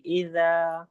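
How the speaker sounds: اذا with a light, gentle ذ; soft dhal. Shown as a demonstration. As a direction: correct the pupil with a soft ذ in اذا. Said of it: "نرمی سے پڑھیے". (اذا کی ذال نرمی سے)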